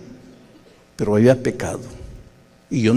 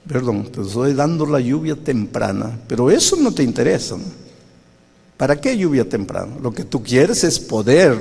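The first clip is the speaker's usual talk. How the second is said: sarcastic rebuke. Retold or imitated. Spirit rebukes the preacher.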